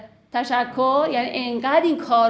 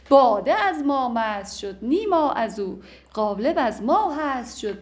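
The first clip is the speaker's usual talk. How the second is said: slow, measured recitation of classical verse; poem recitation. Acted. Teacher reciting Masnavi couplets to his class, in a slow poetic cadence. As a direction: chant the couplets slowly, savouring each line.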